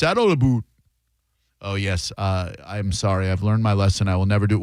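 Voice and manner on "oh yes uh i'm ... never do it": meek traveler. Pretend. Pleading traveler voiced at border.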